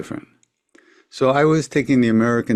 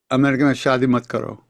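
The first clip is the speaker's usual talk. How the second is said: offhand; 3 semitones higher, faster than usual. Retold or imitated. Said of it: "just very offhandedly".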